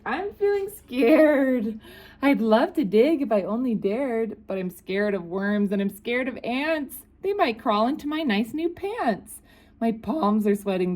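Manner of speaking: high, fretful cook voice; scared cook. Acted.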